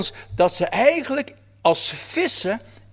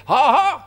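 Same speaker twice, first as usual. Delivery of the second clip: mocking ha ha; 6 semitones higher, 4 dB louder than usual. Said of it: "staat letterlijk in de Bijbel".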